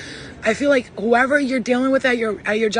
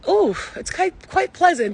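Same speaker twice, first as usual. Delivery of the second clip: much higher, a bit louder, prim "quite pleasant"; mock delighted ghost; 8 semitones higher, 4 dB louder than usual. Retelling the ghosts from Ghost enjoying the sage, a high mock-refined voice. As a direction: play a prissy ghost savouring the smoke.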